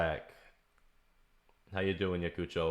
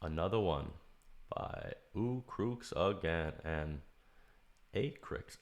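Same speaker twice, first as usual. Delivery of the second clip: ordinary delivery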